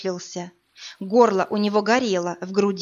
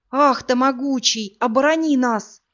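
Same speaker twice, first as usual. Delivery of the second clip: frightened cry; 4 semitones higher, 4 dB louder than usual. Acted.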